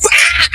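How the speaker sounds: very high imitated yelp of pain; mock pained yelp. Friend hit while hanging out the car, mock pained yelp. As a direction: yelp like you're getting hit.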